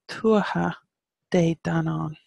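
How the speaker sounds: "tuatha de danann" in separated parts, leaning on "tuatha"; stress on TUATHA. Shown as a demonstration. Teacher modelling the rhythm for learners, stress on "tuatha". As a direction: break "tuatha de danann" up slowly after "tuatha". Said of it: "the emphasis here is on the tuatha".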